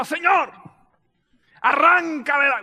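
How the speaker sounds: impassioned cry to God, lightly acted; David. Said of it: "David en un momento determinado".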